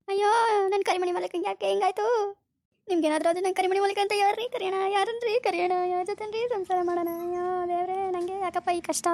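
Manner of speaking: hammed-up tearful wailing of a wife; over-the-top film crying like Shruti. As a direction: lament like a weepy movie heroine, mostly for show. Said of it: "ಶ್ರುತಿ ಥರನೇ acting ಮಾಡ್ತೀಯ".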